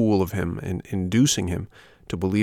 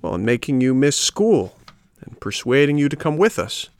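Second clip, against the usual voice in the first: higher-pitched mischievous schoolboy voice; taunting rascal boys; 5 semitones higher than usual. Acted. Schoolboys mock puppet for studying hard, taunting. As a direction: jeer like a cheeky schoolmate.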